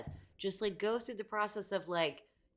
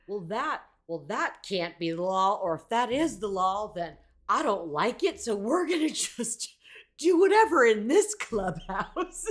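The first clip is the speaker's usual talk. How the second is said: mock defiance; 2 semitones higher, 8 dB louder than usual. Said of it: "these people are like".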